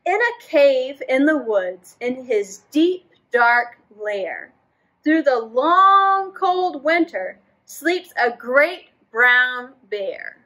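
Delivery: slow, expressive storybook reading; reading to children. A narrator's reading. Teacher reading a story to children. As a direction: draw the kids into the story. Reads picture book aloud.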